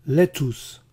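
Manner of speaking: "Lettuce" as LET-oos; wrong quiz option. Shown as a demonstration. Teacher offers a decoy choice, "Lettuce" as LET-toos. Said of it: "¿Cómo se debe pronunciar lechuga".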